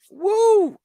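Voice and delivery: high, loud release cry; real relieved whoop; cathartic whoop. Real, not acted. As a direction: let the tension out in one whoop. Blowing off steam.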